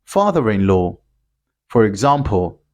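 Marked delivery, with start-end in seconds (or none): 0.0-1.0 'father-in-law' run together with a sounded R; linking R. Shown as a demonstration. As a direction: link 'father' to 'in' with an R. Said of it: "pronounce it and link it".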